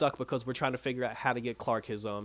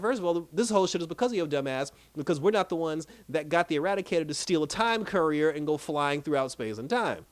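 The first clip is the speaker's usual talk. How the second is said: raised-pitch retold telling-off; mad mother; 4 semitones higher than usual. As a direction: scold as an exasperated mother, mildly acted. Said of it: "Lois got mad".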